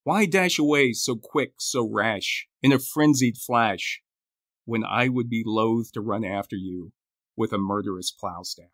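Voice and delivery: measured poetry reading with deliberate pauses; poem recital. Acted. Co-host closing the show with a Burns poem, reciting.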